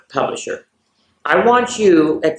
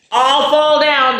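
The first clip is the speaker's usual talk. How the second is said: playful all fall down; 9 semitones higher, 5 dB louder, slower than usual. Acted. Children's game falling moment.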